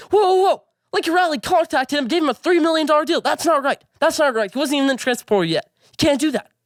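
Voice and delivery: high, alarmed mock outrage; whoa-whoa panic, imitating upset fans; freaking out. Vlogger imitating fans who panic over the deal, high mock outrage. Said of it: "People are freaking out saying".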